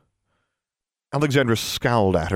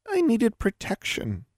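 nervous gulp; 13 semitones higher, 3 dB quieter, slower than usual. Acted. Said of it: "she gulped".

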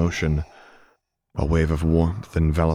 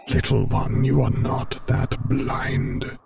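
higher, very slow chiding dark lord; Vader chiding; 8 semitones higher, slower than usual. A narrator's reading. Vader correcting Luke's blindness, slow chiding. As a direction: chide him slowly, like a patient master. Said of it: "he chided".

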